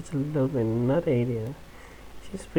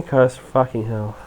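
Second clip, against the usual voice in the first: ordinary talk, nothing marked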